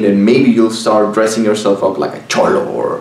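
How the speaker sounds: ordinary talk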